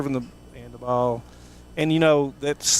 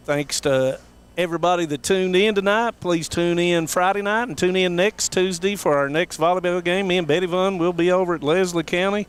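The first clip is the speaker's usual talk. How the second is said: higher-pitched announcer delivery; sportscast sign-off; 5 semitones higher than usual. Real, not acted. Commentator thanking viewers and sponsors after the game, sportscast sign-off. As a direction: sign off to the audience in a raised broadcast voice.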